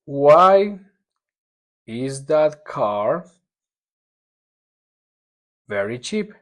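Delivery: very slow, broken up word by word; word by word reading. Shown as a demonstration. Teacher dictating the question word by word, very slowly. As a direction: pause between each chunk. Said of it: "word by word model".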